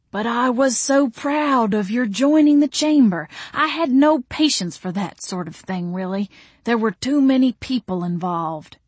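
put-on courtly old friend gently protesting; Mister Wainwright, proud. A narrator's reading. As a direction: start lilting and proud, then ease off. Figure of Mister Wainwright in narrated dialogue.

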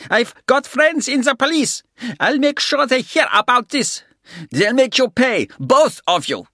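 put-on high, loud snarling old man. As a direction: threaten him with a snarl. German keeps threatening.

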